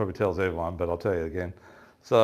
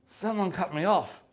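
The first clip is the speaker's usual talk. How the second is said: higher, slower indignant complaint; mock mad; 9 semitones higher, slower than usual. Mate complaining someone cut his line, mock indignant. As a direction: sound robbed and outraged. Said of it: "he's, like, so mad".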